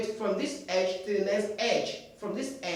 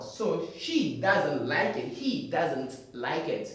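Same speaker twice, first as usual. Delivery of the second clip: slow model sentence; 4 semitones lower, slower than usual. Shown as a demonstration. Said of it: "No O sound".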